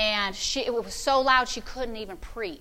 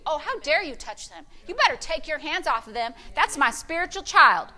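stern protective rebuke; 3 semitones higher than usual. Retold or imitated. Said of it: "I do the same thing for you".

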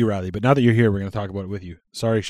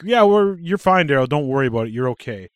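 mock reassurance; 2 semitones higher than usual. Mocking friends teasing him, fake reassuring. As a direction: poke fun while pretending to soothe. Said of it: "they were like".

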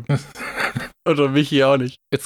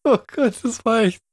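amused exclamation; 12 semitones higher than usual. Real, not acted. Reacting to the reenactment.

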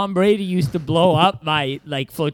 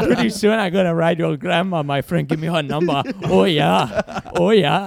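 surfer bro voice. Pretend. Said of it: "I'll try mine".

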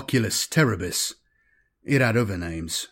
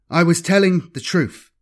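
quivering voice; 7 semitones higher, 5 dB louder than usual. Acted. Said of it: "insisted in a quivering voice".

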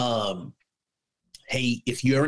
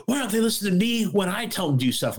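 mock whiny wife; 9 semitones higher, faster than usual. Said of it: "She goes".

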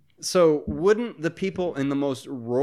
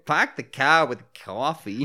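mock Boston accent; 4 dB louder than usual. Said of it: "Let's just talk in a Boston accent".

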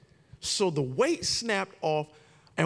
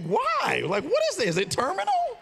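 high panicked questions with a laugh; mock alarm; 14 semitones higher than usual. Patient asking the doctor in hammed-up high panic. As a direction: overreact to the diagnosis. Reacting to bursitis diagnosis.

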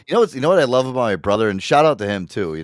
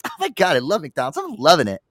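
ordinary talk, nothing marked

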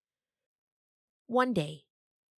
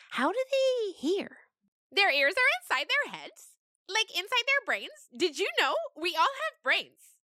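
high goat voice; 13 semitones higher than usual. Acted. Goats discussing ears, very high. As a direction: chatter like an earnest kid goat. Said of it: "Stephanie said".

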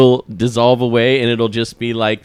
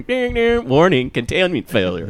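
computer voice; 5 semitones higher than usual. Retold or imitated. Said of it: "the computer voice from Star Trek".

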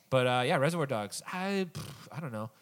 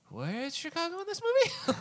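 incredulous; slower than usual. Retold or imitated. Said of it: "I'm like".

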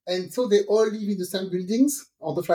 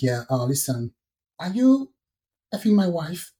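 fake man voice. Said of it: "change my voice and take a man voice".

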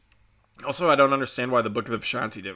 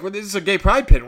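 mock indignant; 7 semitones higher, 10 dB louder than usual. She defends the pin, indignant.

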